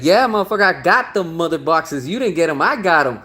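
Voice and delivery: imitated villain bragging to his rival; gloating villain boast. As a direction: crow over the win like a sore winner. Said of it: "and be like".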